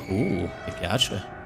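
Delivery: low, slow, savouring uh; slow approving. Real, not acted. Gamer picking up a nice item, low slow relish. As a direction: relish the find. Admiring loot.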